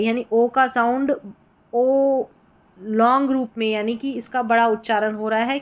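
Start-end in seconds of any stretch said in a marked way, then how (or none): 1.7-2.2 ओ stretched long; a long held o vowel; drawn-out o. Shown as a demonstration. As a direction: hold the ओ sound long. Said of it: "खींच कर इसको पढ़ा जा रहा है".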